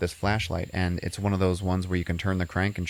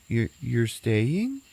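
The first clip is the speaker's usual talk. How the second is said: slow, drawn-out imitation, pitched up; halting question; 4 semitones higher, much slower than usual. Mom at the door hearing they'll stay, imitated halting question. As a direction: stumble slowly into the question. Mother haltingly asks about staying.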